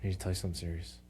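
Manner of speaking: secretive whisper about something serious. Retold or imitated. Coworker confides secret quietly.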